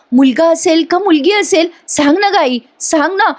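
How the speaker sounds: high, tearful pleading voice; voicing a wife begging over sonography reports; pleading young wife. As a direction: beg him to look at the baby's reports. Sister-in-law Priya pleading with family.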